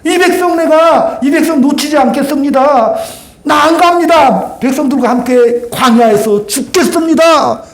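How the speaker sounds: Moses refusing to abandon his people; pleading Moses. Acted.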